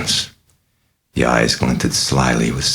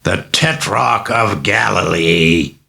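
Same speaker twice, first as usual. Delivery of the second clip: slow, higher demon blast of anger; scorching contempt; 6 semitones higher, slower than usual. Acted. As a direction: spit the title out with contempt. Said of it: "she blasted him with anger and scorching contempt".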